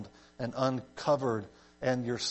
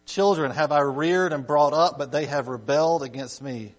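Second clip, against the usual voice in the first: emphatic, declaimed Bible verse; scripture reading; 4 dB louder than usual. Acted. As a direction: open with a strong call, then ease down.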